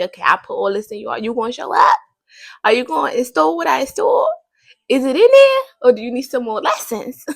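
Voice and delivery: a lightly voiced God testing you, rising as it goes; God's voice, imagined. Vlogger voicing God asking if you're ready. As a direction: play God checking in on you, half teasing. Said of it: "he's watching to see".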